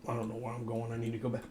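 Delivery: talking through heartburn discomfort; a bit strained from heartburn. Real, not acted. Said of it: "I got heartburn".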